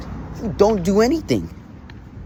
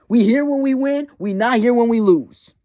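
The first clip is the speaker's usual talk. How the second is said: mock front runner; 4 semitones higher, 5 dB louder than usual. Mocking rival fan's fair-weather attitude.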